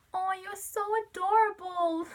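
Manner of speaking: high-pitched, cooing attempt at an American accent; American accent. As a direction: gush in a put-on American accent. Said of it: "I'm so bad at American accents".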